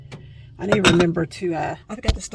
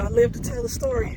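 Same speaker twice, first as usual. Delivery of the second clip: much higher mock-dramatic squeal; 3 dB louder than usual. Real, not acted. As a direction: play up the danger jokingly. Dramatic joke about surviving.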